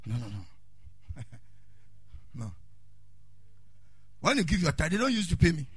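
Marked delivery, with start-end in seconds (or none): 0.1-2.5 mock low no. Pastor denying getting riches.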